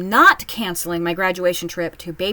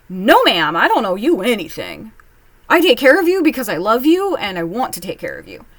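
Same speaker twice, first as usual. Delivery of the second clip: louder, with a stress on "take"; firm pushback; 6 dB louder than usual. Real, not acted. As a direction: stand your ground, hitting each word. Talking back to mom.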